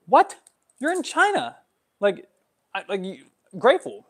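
high, loud disbelieving What; can't believe the complaint; incredulous. Real, not acted. Mocking a vlogger who is stressed in China, incredulous.

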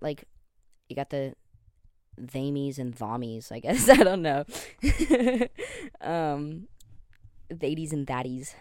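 ordinary talk

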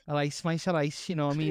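put-on a self-admitted weak Liverpool accent; attempted Liverpool accent. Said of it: "I can't really do a Liverpool accent".

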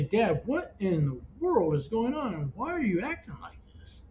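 swooping, emphatic questions; re-enacted bewildered confrontation, pitch leaping; retold exasperated demand. Retold confrontation with his father.

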